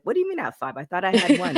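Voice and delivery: playfully dispute the count; mock disbelief. Acting out disputing the rep count.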